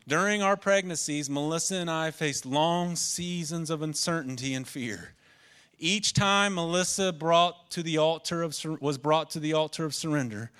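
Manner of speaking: reading testimony aloud. Acted. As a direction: read a written testimony out to the congregation. Reads out written testimony.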